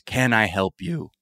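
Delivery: slow, gentle and even; calm offer of help. Retold or imitated.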